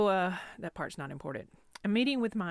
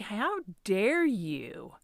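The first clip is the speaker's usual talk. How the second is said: hammed-up hurt indignation; defensive indignation; 4 dB louder, slower than usual. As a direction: drag out the offended protest as if reliving it. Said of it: "I can remember feeling very defensive".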